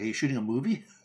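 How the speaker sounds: mock snarky sarcastic tone. Retelling the answer given to people asking for a green screen, retelling a sarcastic reply. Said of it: "in my normal sarcastic voice".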